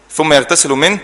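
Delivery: يغتسل منه read with final u; raf' on يغتسل. Shown as a demonstration. Teacher correcting a sukun reading, damma kept on يغتسل. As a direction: keep the short u after the lam in يغتسل. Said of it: "واحنا بنقرأها بالرفع".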